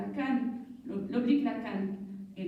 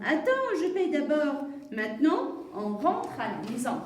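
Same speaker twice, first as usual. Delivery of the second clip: a touch of firm mum; mother's reply. Acted. Mum telling child to wait, lightly acted firm reply.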